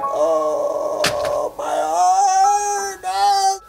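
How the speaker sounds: very high, drawn-out mock wail; hammed-up wail of a broken heart; mock heartbreak. Lamenting an unanswered email, mock heartbroken wail.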